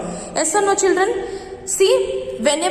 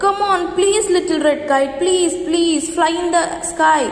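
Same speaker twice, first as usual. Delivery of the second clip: pleading; 3 semitones higher than usual. Acted. Boy begging his kite to fly, pleading. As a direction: coax the kite to fly, please please. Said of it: "Hari got upset".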